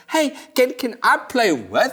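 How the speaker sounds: lightly voiced shy kid; kid asking. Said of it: "asks the kids".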